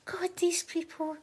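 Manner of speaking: slow, whispered aside; whispered mock exasperation. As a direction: mutter it to yourself in a hammed-up whisper. Acted exasperated aside at locals.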